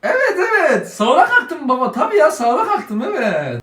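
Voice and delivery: giggly, sheepish yes-yes; nervous laughing lie. Acted. Son caught by father, laughing nervously.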